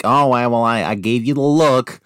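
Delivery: lightly mocking pious scold; a hint of a churchy scold; prim Christian. Mocking a Christian scolding a friend, lightly prim. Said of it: "You know, like".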